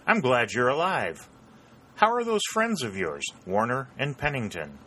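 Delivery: high-pitched, eager and glad; joyous greeting. A narrator's reading. Lad asking Mason after his friends, joyously excited. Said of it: "hailed him with a joyous shout".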